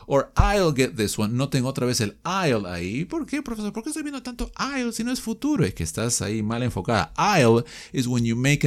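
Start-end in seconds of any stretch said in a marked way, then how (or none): 3.0-5.7 mock student asking the teacher, higher; high, slightly hushed pupil's question; confused student. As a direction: play a puzzled pupil.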